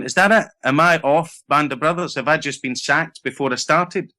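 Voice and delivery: high, disbelieving questions, easing down; retold dismay, starting high and settling; bewildered questioning. Actor looking around after seemingly being sacked, retold bewilderment.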